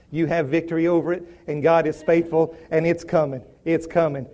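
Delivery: calm, low assurance. Acted. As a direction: stand with someone in prayerful agreement. Voices agreeing with someone in trouble.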